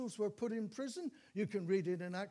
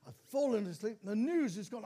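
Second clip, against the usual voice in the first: louder, exasperated self-quote; mock dismay at missing out; raised voice of mild frustration; dismayed retelling; 5 dB louder than usual. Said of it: "I said".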